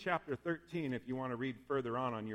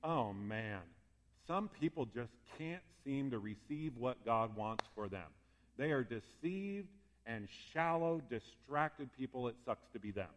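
smug judgment; 2 semitones lower than usual. Retold or imitated. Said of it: "We think".

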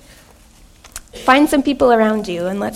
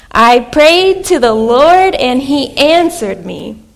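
congregation call and response; 3 dB louder, slower than usual. Shown as a demonstration. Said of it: "Can you say it with me?".

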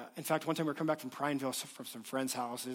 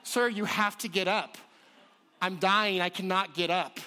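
mock dramatic dying; 4 semitones higher, 5 dB louder than usual. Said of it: "I'm a little dramatic sometimes".

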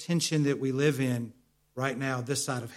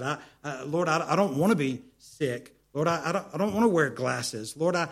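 louder, rising mock prayer of complaint; imitating a pleading prayer; 3 semitones higher, 5 dB louder than usual. Preacher acting out a whining prayer to the Lord, building louder. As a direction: voice the stammering believer begging God, getting louder. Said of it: "pleading prayer voiced in sermon".

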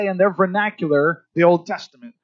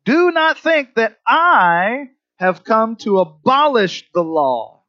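Jesus quoted; 5 semitones higher, 4 dB louder, slower than usual. Acted. Preacher voicing Jesus slowly.

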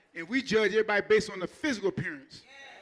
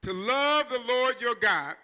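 slow emphasis; 4 dB louder, much slower than usual. Shown as a demonstration. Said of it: "watch this here".

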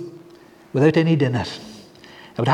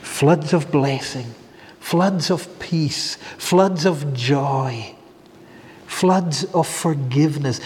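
slow tender list; 3 semitones lower, 3 dB quieter, slower than usual. Real, not acted. Preacher lists floods, slowing.

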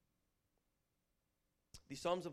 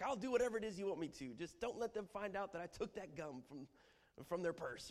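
put-on kid bargaining; 4 semitones higher than usual. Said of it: "whenever I was a little kid".

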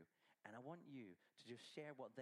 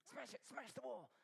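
high, loud cheering on; rally the helpers to smash it; excited urging; 11 semitones higher, 4 dB louder than usual. Acted. Preacher cheering children to smash the Lego wall, high and excited.

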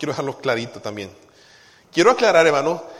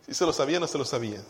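laughing question; much faster than usual. Real, not acted.

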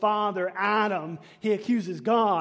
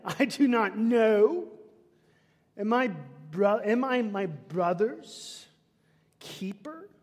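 slow, sneering retort; lightly acted insolent son; condescending reply; 3 semitones higher than usual. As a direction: brush God off with disdain. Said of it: "this is a condescending response".

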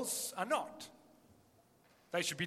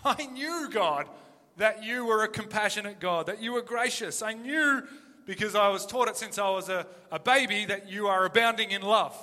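Jonah's complaint; 2 semitones higher, 5 dB louder than usual. Retold or imitated. Preacher voicing Jonah telling God he knew it, raised and aggrieved. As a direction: voice Jonah pleading his case, a touch loud. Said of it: "This is Jonah's response".

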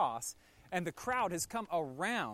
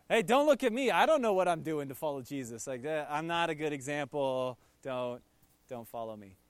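defensive deflection; 3 semitones lower, 4 dB louder than usual. Retold or imitated. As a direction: wave off the attention nervously. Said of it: "Maybe you're feeling that way spiritually".

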